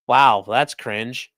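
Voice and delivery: slow, dragged-out wow, that's cringe; dry cringe. Real, not acted. Host mocking a judge quoting Hamilton, slow and dry. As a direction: stretch out the disdain.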